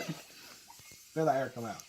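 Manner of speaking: very slow, drawn-out coaching; slow instruction. Shown as a demonstration. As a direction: draw it out like a patient coach. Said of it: "teaching a tongue technique".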